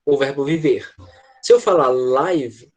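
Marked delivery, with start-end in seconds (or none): 1.9-2.7 very slow «live» with a long ai; drawn-out «live» for ao vivo; live as in broadcast. Shown as a demonstration. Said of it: "eu tô falando a palavra ao vivo".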